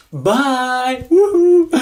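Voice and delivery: high, loud cheery woohoo; excited whoop. Real, not acted.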